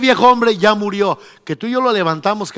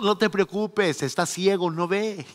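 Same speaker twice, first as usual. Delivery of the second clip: reassuring; 7 dB quieter than usual. Acted. Lord reassuring Ananías.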